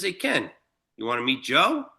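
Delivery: imitating a low-key, offhand invite; very casual. Player nonchalantly offers his buddy an introduction, very casual. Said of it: "says to me just very casually".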